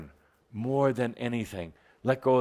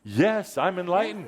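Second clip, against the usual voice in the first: a higher, self-assured claim; with attitude; 6 semitones higher than usual. Shown as a demonstration. To the audience, declaring enlightenment with attitude. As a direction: own it boldly. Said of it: "say it with a bit of an attitude, some acting".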